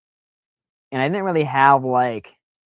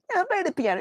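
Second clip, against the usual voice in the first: high cartoon accusation, repeated; Simpsons cartoon voice; faster than usual. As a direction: shriek it again, cartoon-style. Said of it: "in The Simpsons".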